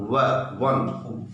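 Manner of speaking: वन drawn out very slowly from व; sounding out slowly. Shown as a demonstration. Teacher sounding out वन for the class. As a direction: stretch व into वन slowly. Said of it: "वन लिख के देखिए".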